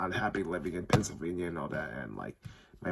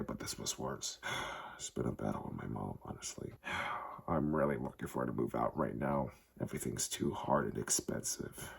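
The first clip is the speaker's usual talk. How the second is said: weary and sad; 5 semitones lower, 4 dB quieter than usual. Real, not acted. Sighing, worn down about mom.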